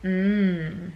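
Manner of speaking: imitated creepy, drawn-out "mm"; creepy little hum. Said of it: "he did that creepy little".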